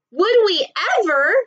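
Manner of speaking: put-on high, eager child voice; children thrilled to see the dinosaurs; excited kids. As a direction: burst out with eager delight. Excited children answering professor.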